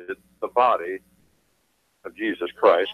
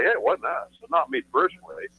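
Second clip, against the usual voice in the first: mocking the bankers; 13 semitones higher than usual. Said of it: "They say".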